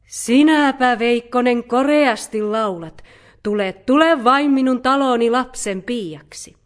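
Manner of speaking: a broad smile in a loud, lifted voice; delighted, beaming. A narrator's reading. Mother bear hiring the fox after its song, beaming. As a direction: praise and invite heartily, beaming. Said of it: "suu levisi leveään myhäilyyn".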